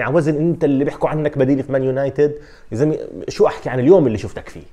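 loud, fed-up outburst, imitating an angry star; mock a star player's exasperated rant; exasperated Ronaldo. Star player cursing the day he met his teammate, exasperated. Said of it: "شوي رونالدو بده يقول".

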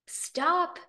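high, loud call after a thief; acted alarmed shout; crying out. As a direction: call it out high, each word separate. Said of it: "cried Evergreen".

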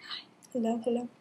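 whispered hello, hello; whispering. Shown as a demonstration. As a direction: breathe the hellos without voice. Whispered repeat of greeting.

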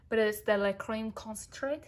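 lightly put-on French accent on "La Creme Concentrate"; a playful hint of French on "La Creme Concentrate"; mock French accent. Shown as a demonstration. Vlogger naming a French cream brand, mock French accent. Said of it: "That's my French accent".

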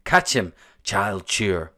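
loud playground call of a giant; shouted. A narrator's reading. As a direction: bellow it mid-game. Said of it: "he shouted".

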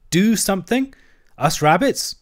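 high-pitched astonished questions; aghast little creature echoing the demand; incredulous rabbit. A narrator's reading. Rabbit astonished at being asked.

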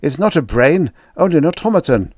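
loud, rising urgent shout. A narrator's reading. Holbrook shouting to Grushenko about the machine. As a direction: shout to convince them. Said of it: "he shouted".

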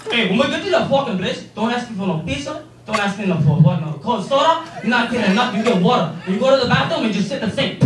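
put-on lightly accented stern Dominican father laying down rules; a hint of a gruff, scolding Dominican dad; angry Dominican dad. Dad warns his kid at Chuck E. Cheese, angry. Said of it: "my dad's an angry Dominican person".

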